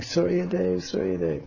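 put-on high, soft calling voice of a girl; high-pitched hushed prayer to Surya; calling to Surya Dev. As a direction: call softly to the sun god. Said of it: "he heard someone saying".

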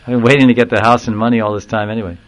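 fast, laughing imitation of a gleeful heir; mock happy widow. Western widow mocked, laughing and rattling on fast. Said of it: "they're happy".

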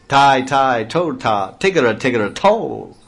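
ringing, loud chant of bols; loud rhythmic calling. Acted. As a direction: call the beats out boldly. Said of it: "she smiles and loudly says".

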